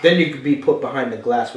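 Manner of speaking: preacher's crescendo; building refrain. Real, not acted.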